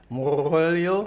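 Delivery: Moyo in a mock accent; imitated accent. Mimicking co-host's greeting, mock accent. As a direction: echo it in a questioning mock accent. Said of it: "these accents you be doing".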